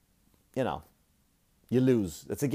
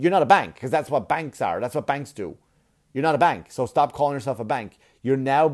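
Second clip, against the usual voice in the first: loud, indignant telling-off; annoyed retold rant; 2 semitones higher, 5 dB louder than usual. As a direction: lay into them in mock outrage. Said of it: "And I was annoyed".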